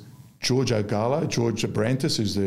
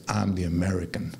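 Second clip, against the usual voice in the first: Clint Eastwood-like drawl; 4 semitones lower than usual. Retold or imitated. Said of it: "Sounds like Clint Eastwood".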